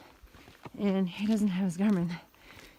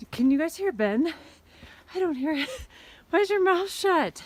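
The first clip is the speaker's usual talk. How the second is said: loud teasing; 9 semitones higher, 6 dB louder than usual. Real, not acted. Teasing hiking partner mid-climb.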